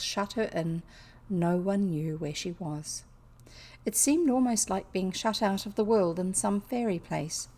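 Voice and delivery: measured storybook reading; story narration. A narrator's reading. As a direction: read it aloud as an unhurried story. Reads a novel aloud.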